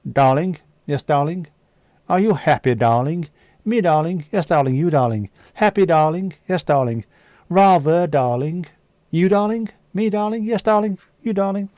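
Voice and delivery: hammed-up nineteen-forties British film lovers; old British film actors. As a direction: trade darlings like a stiff-upper-lip screen couple. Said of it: "every other word, "Darling".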